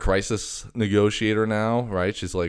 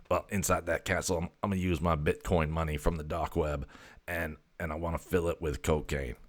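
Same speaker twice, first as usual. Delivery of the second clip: a softer, lightly voiced cat; voicing the cat Graphite; 6 dB quieter than usual. The cat confiding his cocaine plan, softly. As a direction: murmur the scheme as the cat.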